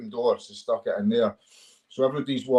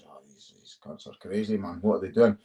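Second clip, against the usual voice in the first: mock Dutch fighters; 4 semitones lower, 4 dB quieter than usual. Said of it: "these Dutch guys are like".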